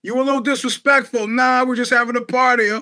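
light imitation of a tense movie confrontation; Jimmy the Gent. Acting out a disrespect row at a party, light gangster role. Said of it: "like Jimmy the Gent kind".

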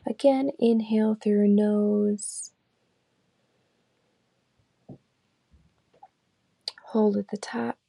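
calm, unhurried meditation guide; guided meditation. Acted. Leading listeners through a body scan, calm guided meditation. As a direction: lead them gently through the body scan, leaving long pauses.

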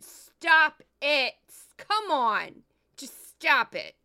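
loud, slow exasperated yell; fed-up loud yell of disbelief; retold scream. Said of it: "I literally just screamed".

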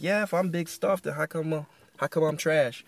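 mildly mock-affronted comeback; snapping back. Retelling Gideon's comeback to the angel, mildly snapping. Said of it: "he snapped at the angel".

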